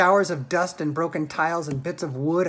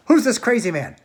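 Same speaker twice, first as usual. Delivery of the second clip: scream; 7 semitones higher, 8 dB louder than usual. A narrator's reading. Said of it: "screamed Grandma Josephine".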